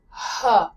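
"huh" with a strong puff of breath on the H; breathable H sound. Shown as a demonstration. Teacher isolating the American H for learners, breathy "huh". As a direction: push air out audibly to start "huh". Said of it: "this breathable H sound".

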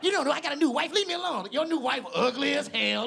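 high-pitched comic bickering; mock family argument. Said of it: "turned into this whole argument that was way too personal".

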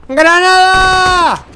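long, drawn-out high shout; grenade warning. Real, not acted. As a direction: yell it loud and stretch it out. (grito largo de alarma)

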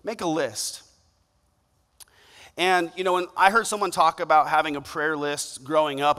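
ordinary delivery

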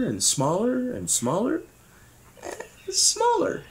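shrinking voice. A narrator's reading. Narrator tells of Oobleck drops vanishing, voice shrinking away.

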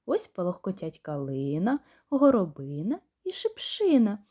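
put-on measured, sing-song reading of a children's poem; rhythmic nursery verse, read aloud; poem recital. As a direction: recite it gently for little kids.

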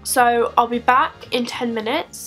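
stiff lips from tight mask; limited mouth movement speaking; talking through drying face mask. Real, not acted. Seen 0: Clay mask covers face during speech, drying round mouth; refs bare.

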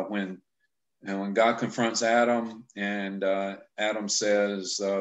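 normal talking voice

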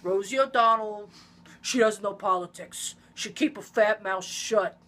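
lightly voiced Trump jab; a hint of Trump sneering; light Trump insult. Friend insulting Rosie O'Donnell as Trump. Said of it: "that's my Trump impression".

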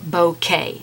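bouquet said as BOH-kay; two clear syllables in bouquet, "boh" then "kay"; correct pronunciation. Shown as a demonstration. Painting teacher confirming the proper word, bouquet as BOH-kay. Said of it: "it is pronounced bouquet".

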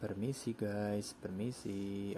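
slow, stretched-out polite request; drawn-out excuse me. Pretend. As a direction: draw it out while squeezing past traffic. Playfully asking traffic to let him pass. (permisi yang dipanjang-panjangkan, pelan)

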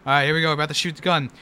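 ordinary talk

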